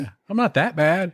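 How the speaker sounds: a hint of a whiny convict pleading; mock whiny prisoner. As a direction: whine it like the prisoner. Continues the prisoner voice.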